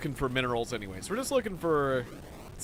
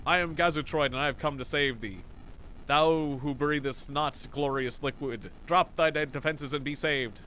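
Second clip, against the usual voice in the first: mock biblical prophet. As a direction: proclaim like a grand alien prophet. Alien read aloud in voice.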